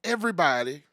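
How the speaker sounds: high, loud build to shout; hype announcement. Acted. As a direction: shout her in like an arena MC. Hype announcing guest arrival.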